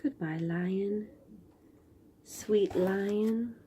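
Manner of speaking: slow, hushed whisper. Acted. Reader bidding the lion farewell, whispering. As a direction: let the goodbye fall to a whisper.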